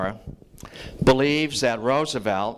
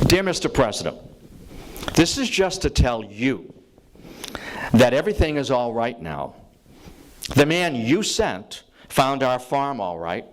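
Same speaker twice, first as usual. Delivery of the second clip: slow, measured reading with long pauses between phrases; read slowly. Shown as a demonstration. Lecturer reads a farmer's thank-you letter to the audience, slow and measured. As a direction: let each line of the farmer's letter land. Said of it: "I'm gonna read this slowly".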